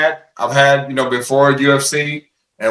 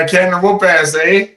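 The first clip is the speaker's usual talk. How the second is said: imitating a Canadian, raised pitch, leaning on the eh; teasing his Canadian co-host with a higher, playful Canadian eh; mock Canadian accent; 5 semitones higher than usual. Teasing the Canadian host, in a raised mock Canadian accent. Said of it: "do you think I have an accent when I say that".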